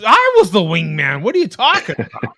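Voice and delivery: loud, rising protest; mock indignation. Correcting co-host on who was wingman, loud mock indignation. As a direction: push back hard, as if insulted.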